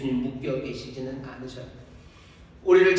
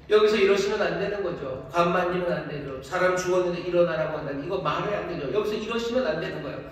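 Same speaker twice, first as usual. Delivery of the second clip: mock indignant protest; 3 semitones higher than usual. Voicing bystanders objecting to Jesus.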